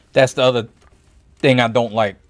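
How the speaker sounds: hiccuping between words; short of breath from hiccups. Real, not acted. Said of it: "sounding out of breath, it's because I'm hiccuping".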